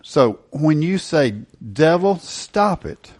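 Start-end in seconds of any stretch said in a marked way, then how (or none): 1.6-3.1 confident rebuke. Shown as a demonstration. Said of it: "Confidently, boldly".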